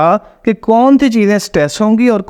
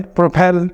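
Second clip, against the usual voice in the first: "प्रोपेल" as pro-PEL, stress on PEL; second-syllable stress; slower than usual. Shown as a demonstration. Teacher names the example verb, "प्रोपेल" stressed pro-PEL. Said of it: "प्रोपेल second syllable को इसलिए stress".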